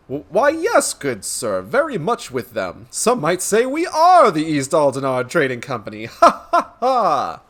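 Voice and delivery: lightly voiced pompous gentleman, swooping up; hearty reply ending in a big stagey laugh; boastful gentleman. Gentleman answering the merchant about the trading company, boastful.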